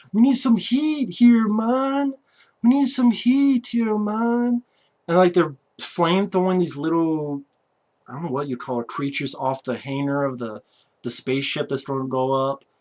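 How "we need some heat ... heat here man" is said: put-on Jamaican accent, higher and louder. Retelling a movie side character's line: imitating a jamaican accent. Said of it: "this guy in this Jamaican accent".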